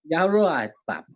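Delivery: copied Birmingham greeting; put-on Birmingham accent; attempted Brummie accent. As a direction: echo it in rough Brummie. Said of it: "I can't do Brummie very well".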